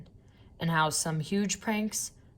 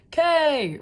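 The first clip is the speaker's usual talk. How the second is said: high, loud one-letter yell back; crowd shout; 10 semitones higher, 8 dB louder than usual. A narrator's reading. Fans in the bleachers answering the cheerleaders, loud high yell. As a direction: roar it back like a stadium crowd. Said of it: "repeated the fans".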